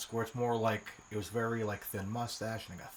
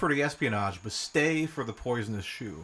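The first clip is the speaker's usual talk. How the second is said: trailer voice; 2 semitones higher than usual. Acted. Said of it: "trailer voice".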